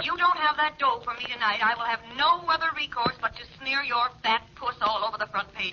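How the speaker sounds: fast, contemptuous phone rant; scornful blackmailer scolding her victim; angry tirade. Acted. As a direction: tear into him, spitting insults. Blackmailer berates him over phone.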